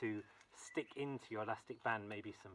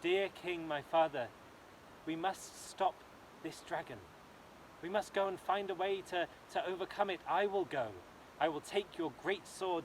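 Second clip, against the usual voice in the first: brave princess; 3 semitones higher than usual. Acted. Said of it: "she said".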